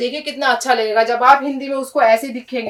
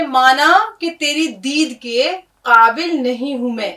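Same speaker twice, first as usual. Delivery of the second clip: reciting a couplet; slower than usual. Shown as a demonstration. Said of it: "Iqbal کا ایک شعر ہے".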